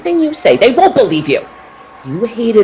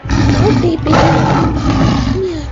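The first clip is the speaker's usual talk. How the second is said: high coaxing call to the big cat; urging an animal; 9 semitones higher, much slower than usual. Acted. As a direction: egg the tiger on, eager and high. Faye urges her tiger on.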